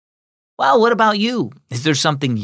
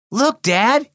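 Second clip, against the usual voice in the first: higher-pitched call to Dad; 11 semitones higher than usual. A narrator's reading. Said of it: "he called as he knelt".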